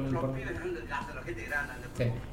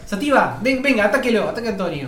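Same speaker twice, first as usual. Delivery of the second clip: mock calling the dog; 4 semitones higher, 4 dB louder than usual. Calls dog to attack friend.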